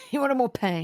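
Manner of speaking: said through a real laugh; amused, laughing repeat. Real, not acted. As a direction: chuckle at the slip as you say it. Laughing at a mix-up of words.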